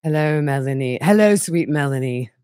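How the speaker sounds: creepy Hannibal Lecter-like monotone; lightly voiced creepy monotone; Chad voice. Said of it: "almost like Hannibal Lecter".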